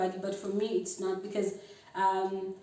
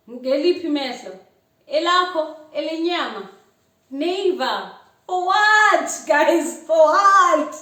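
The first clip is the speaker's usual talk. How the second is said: rising louder, higher and indignant; indignant outburst; 5 semitones higher, 9 dB louder than usual. Real, not acted. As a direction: demand to know what for. Indignant rant at pushy guy.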